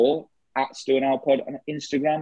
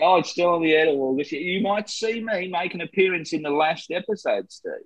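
put-on Australian accent; 2 semitones higher than usual. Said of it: "George Lazenby here".

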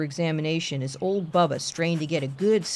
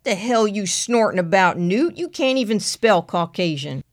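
country deputy voice; 3 semitones higher, 3 dB louder than usual. Acted. Frank snaps at Newt.

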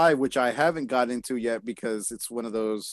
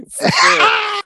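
very high, loud mock squeal; squealed for sure; 9 dB louder than usual. Joking about the border agent, very high and loud squeal. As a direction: squeal it like a giddy kid.

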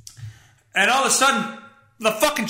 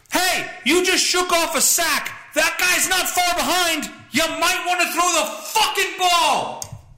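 higher exasperated yell; shouting at the TV; 10 semitones higher than usual. Retold or imitated. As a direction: bark advice at the player. Yelling at quarterback on TV.

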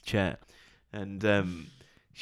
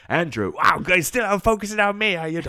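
much higher, louder sarcastic jab; mock sarcastic presenter; 11 semitones higher, 8 dB louder than usual. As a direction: tease a co-host with exaggerated sarcasm. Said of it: "he's like".

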